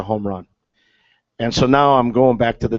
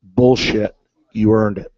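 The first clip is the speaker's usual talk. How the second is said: dry, matter-of-fact delivery; Lefty's bone-dry welcome to the rookie; deadpan; 2 semitones lower, slower than usual. Retold or imitated. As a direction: say it flat and unimpressed. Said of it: "just as deadpan as possible".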